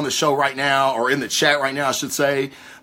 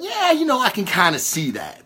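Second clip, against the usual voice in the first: conceding afterthought; 5 semitones higher than usual. Retold or imitated. Podcaster recalling his second thoughts, high-pitched grudging concession. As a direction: come round to it in a high, musing voice. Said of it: "later thought about and went".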